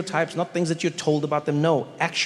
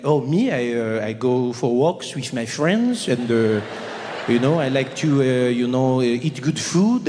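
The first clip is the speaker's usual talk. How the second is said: lightly voiced Frenchman. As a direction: lazily list life's pleasures like a relaxed Parisian. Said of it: "You go up to a French person".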